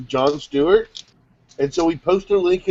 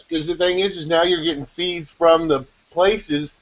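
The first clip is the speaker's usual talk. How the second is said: talking while chewing food; mouth full. Real, not acted. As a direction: say it round a bite of food. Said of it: "Steve, don't talk with your mouth full".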